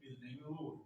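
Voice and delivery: quoting Job. Retold or imitated. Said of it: "Job said".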